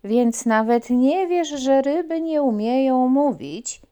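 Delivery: slow, loud mocking frog. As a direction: tease the puppy. Frog mocks puppy.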